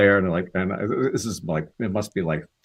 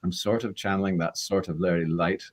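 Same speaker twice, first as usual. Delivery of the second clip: lightly voiced soft Scots accent; a hint of Scots, modelled on a film actor; 2 semitones lower, 4 dB quieter than usual. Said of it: "very slightly, I'd listened to him in Local Hero".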